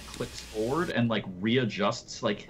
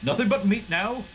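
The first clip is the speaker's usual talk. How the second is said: put-on high, louder old man's voice; dismissive old scientist; 10 semitones higher, 5 dB louder than usual. Old man glances at the dead bodies, dismissive and high-pitched. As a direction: toss it off high, as a cursory question. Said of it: "and he goes".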